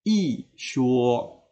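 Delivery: "I shuo" with a falling "I", then level "shuo"; fourth tone before first. Shown as a demonstration. Teacher repeating the example, "I shuo" with falling "I". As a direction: drop "I", then hold "shuo" even. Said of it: "i ini akan berubah menjadi i".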